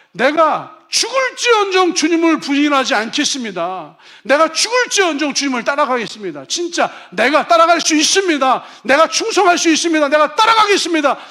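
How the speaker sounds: fervent loud oath as Peter; Peter's vow. Acted. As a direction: proclaim it like a man who would die for his master. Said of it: "베드로가".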